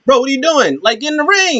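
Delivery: high-pitched mock outrage at a referee; exasperated scolding. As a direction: act out a fed-up wrestler, voice jumping up. Wrestler scolds distracted referee, retold.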